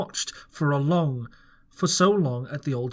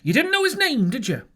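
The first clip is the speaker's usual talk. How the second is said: Silver questioning Morgan; 10 semitones higher, 3 dB louder than usual. A narrator's reading. Stern interrogation.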